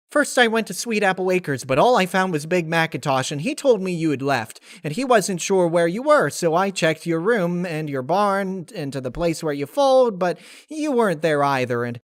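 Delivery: squeaky excited cartoon pony; Pinkie Pie. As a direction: chirp it out like an eager, bouncy pony. Pinkie rambles to Applejack.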